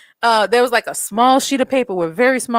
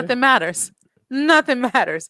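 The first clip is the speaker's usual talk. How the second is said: Dalai Lama calm. Retold or imitated. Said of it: "I've turned into more of a Dalai Lama in my approach".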